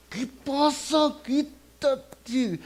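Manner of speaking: high, slow, sharp rebuke; stern rebuke. Retold or imitated. Jesus turning sharply on Peter with a high, slow rebuke. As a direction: drag it out as a stern scold.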